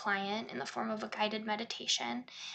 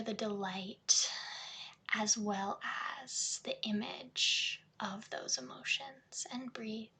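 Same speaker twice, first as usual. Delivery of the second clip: guided meditation. Shown as a demonstration. Therapist welcoming sounds and tears from client, guided meditation. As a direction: guide them gently back to the breath.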